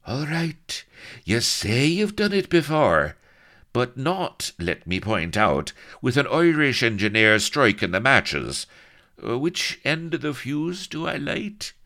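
high, loud complaining voice; agitated, grumbling Blood. A narrator's reading. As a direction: object testily, pitched well up.

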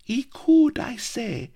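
high, sharp loud snap; snapping. Acted. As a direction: snap back at her friend, high. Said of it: "snapped Melliflua".

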